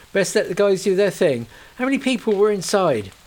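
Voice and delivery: calm professional; young officer voiced. Young officer gently questions the distraught Kate.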